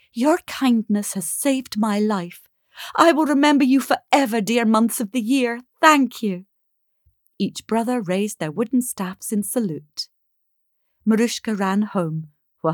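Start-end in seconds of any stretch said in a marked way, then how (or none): 0.1-6.5 higher, quickening gratitude; heartfelt thanks. Acted. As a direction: thank them with all your heart. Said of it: "thanked them with all her heart".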